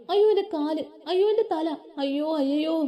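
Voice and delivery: high, hammed-up wail of അയ്യോ; mock wailing. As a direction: wail like a child about to fall. Girl wailing on the branch. (ഉയർന്ന ശബ്ദത്തിൽ നാടകീയ നിലവിളി)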